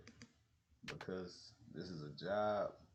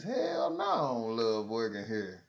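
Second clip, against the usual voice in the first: loud declaration; 8 dB louder than usual. Real, not acted. Telling bosses to their face, loud blunt. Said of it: "I told them to their face".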